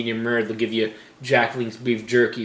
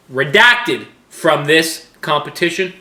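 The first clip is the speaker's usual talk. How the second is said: indignant outburst; 5 semitones higher, 8 dB louder, slower than usual. Real, not acted. Indignant rant about brother's dish.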